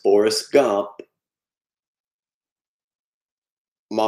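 a light take on Forrest introducing himself and quoting mama; Forrest Gump impression. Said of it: "do the voices".

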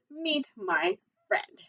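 high, slow, measured reveal; confident introduction. Acted. Jack introducing his giant friend to bullies, confident. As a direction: present him word by word.

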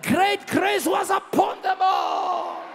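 high, drawn-out preaching cry; full-force preaching. Real, not acted. Preacher urging people to join morning prayer, full-force preaching.

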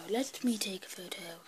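whispered repeat of take a photo. Shown as a demonstration. Kid repeating his line to the camera as a whisper. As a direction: breathe it, no voice.

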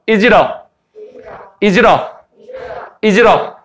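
"Is it a" run together like one word; linked pronunciation. Shown as a demonstration. Teacher drills students to repeat after him, linked pronunciation. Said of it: "이렇게 말하면 돼".

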